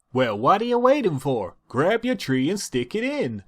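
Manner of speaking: high, mildly commanding. Acted. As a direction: push him on, a bit bossy. Applejack commands.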